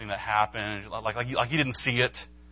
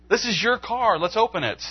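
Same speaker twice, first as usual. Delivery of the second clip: higher and louder, calling his bluff; confronting challenge; 10 semitones higher, 4 dB louder than usual. Retold or imitated. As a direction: dare him to open it. Confronting the scammer.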